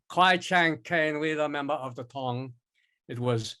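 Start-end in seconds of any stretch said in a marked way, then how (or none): 0.1-2.5 stereotyped Asian accent. Shown as a demonstration. Actor demonstrating the accent the director expected, stereotyped Asian accent. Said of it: "instead of going".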